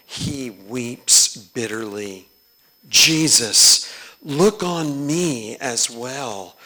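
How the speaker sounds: slow, earnest recitation; prayerful reading. Acted. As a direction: pray the text aloud. Reads chorale prayer.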